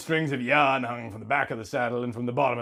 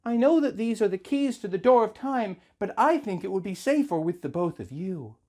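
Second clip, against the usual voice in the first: a hint of a gentle princess, slightly higher; Zelda, calm and sure, just a bit higher than the narration; lightly voiced Zelda; 5 semitones higher than usual. Zelda to the bride, handing over the keys, lightly voiced and calm.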